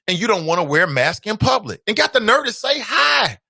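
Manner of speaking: exasperated outburst; frustrated shout. Real, not acted. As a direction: let it burst out in frustration. Fed-up rant about greetings.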